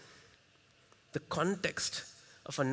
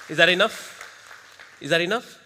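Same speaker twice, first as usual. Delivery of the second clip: louder call to the crowd; crowd prompt; 7 dB louder than usual. Shown as a demonstration. Trainer pumping up the audience, loud call. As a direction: push the crowd for more noise. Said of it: "Don't get satisfied".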